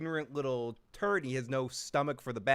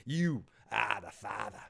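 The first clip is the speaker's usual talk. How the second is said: slow, exaggerated Boston accent; drawn-out Boston vowels with dropped R's; 3 semitones lower than usual. Host replaying his accidental slip, slow Boston accent. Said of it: "my Boston accent came out".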